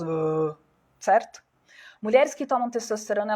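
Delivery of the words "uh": low, thick "uh" imitating a man's voice; deep voice demo. Shown as a demonstration. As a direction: demonstrate a thick male voice with one grunt. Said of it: "ela é muito mais grossa".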